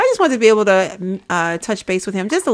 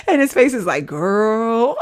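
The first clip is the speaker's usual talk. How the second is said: a bit louder through laughter; laughing while talking; 4 dB louder than usual. Real, not acted. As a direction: talk through the giggles. Laughing while describing face.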